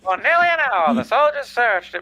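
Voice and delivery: put-on old-time radio narrator voice; 1940s radio announcer. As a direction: read it like a vintage newsreel. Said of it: "I am doing the nineteen forties radio guy".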